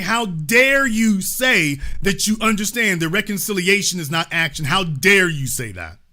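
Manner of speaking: hammed-up retelling of an angry outburst; quoting a furious man with mild heat; imitating outrage. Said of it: "He's like".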